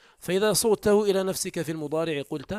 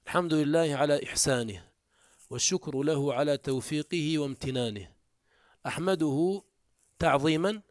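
lightly voiced khutba delivery, measured phrases; preacher's sermon opening. Shown as a demonstration. Teacher playing a preacher opening a sermon, light formal recitation. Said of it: "وهكذا الخطيب إذا قال".

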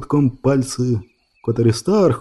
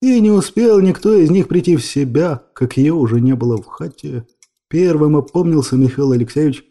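plain reading voice

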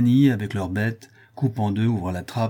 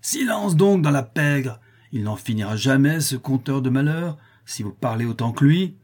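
furious outburst; 3 semitones higher than usual. Acted. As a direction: shut the room up, furious. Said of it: "s'écria, furieux".

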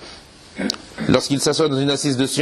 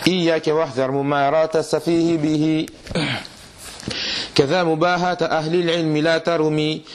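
measured, metrical verse reading; poem recitation. Acted. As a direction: recite the didactic verses line by line in even cadence. (إلقاء منظومة شعرية بإيقاع موزون)

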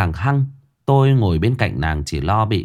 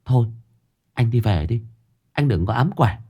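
mild glare; 3 semitones higher than usual. Acted. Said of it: "Linh trừng mắt".

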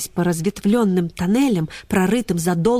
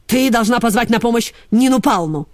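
commanding; 3 semitones higher, 4 dB louder than usual. Acted. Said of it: "приказал Ксюне полкан".

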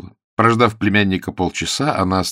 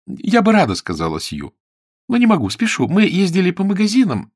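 bright hurried excuse; 9 semitones higher, 6 dB louder than usual. Acted. Sue chirps to the aunt.

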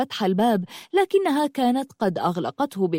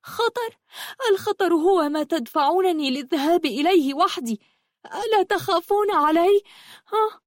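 much higher-pitched, indignant outburst; roaring anger; 9 semitones higher than usual. A narrator's reading. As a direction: protest angrily with pitch soaring. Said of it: "صاحت بغضب هادر". (بغضب هادر ونبرة حادة الارتفاع)

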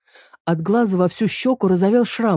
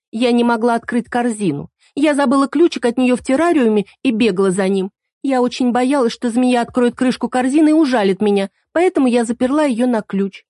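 put-on higher girl's voice, justifying herself; girl excusing herself, higher voice; making excuses; 6 semitones higher, 3 dB louder than usual. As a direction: defend yourself, a bit anxious. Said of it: "оправдывалась девушка".

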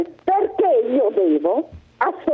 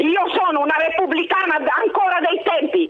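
angry shout; 3 semitones higher than usual. Real, not acted. Caller shouting back.

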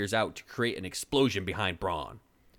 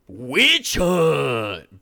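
"Witch hunt!" yelled full force, higher; screaming; 5 semitones higher, 10 dB louder than usual. Acted. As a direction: roar "Witch hunt!" as a battle cry. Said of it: "Braun screamed at the top of his lungs".

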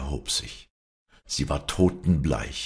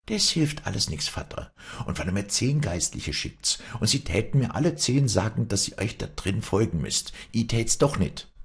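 put-on higher, defiant young woman; defiant daughter; 6 semitones higher than usual. A narrator's reading. Wally defying her father, higher defiant voice. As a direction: stand up to your father, stubborn.

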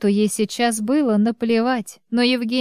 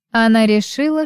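ordinary delivery, nothing marked

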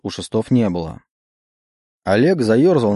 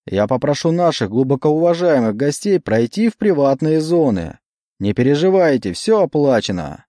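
emcee; 4 semitones higher than usual. Acted. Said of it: "снова заговорил конферансье".

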